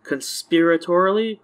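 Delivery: slow, careful "Conspiratorially?"; careful pronunciation. Shown as a demonstration. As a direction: sound out "Conspiratorially?" slowly. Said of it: "weird to pronounce".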